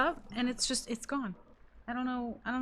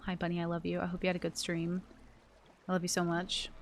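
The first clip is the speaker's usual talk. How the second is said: softer, lower, affectionate; tender; 4 semitones lower, 4 dB quieter than usual. Real, not acted. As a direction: say it gently like a sweet note. Tender words to friend Bunny.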